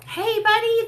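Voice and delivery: high and loud playful dad hello; husband's bright, high call to his son; cheery dad greeting. Retold or imitated. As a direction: greet the little boy like a fun dad. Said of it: "my husband was like".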